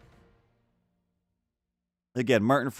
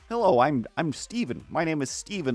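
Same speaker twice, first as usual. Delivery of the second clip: lightly mocked American accent, a bit stilted; Doctor Stephen Strange; 3 semitones higher than usual. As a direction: imitate a stiff attempt at American. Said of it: "Then he's just like".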